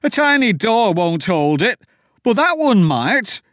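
high, loud, stammering panic; terrified pleading. Acted. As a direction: beg them to flee. Terrified farmer facing the door.

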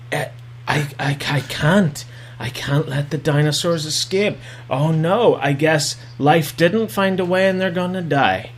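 a hammed-up heavy decision; mock solemn. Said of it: "Claire decides".

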